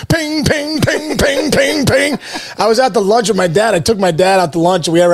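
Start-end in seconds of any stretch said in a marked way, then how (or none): 0.1-2.2 high, even string of alert pings; rapid-fire high ping noises; imitated phone pings. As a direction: mimic a phone going off nonstop. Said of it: "my phone's like".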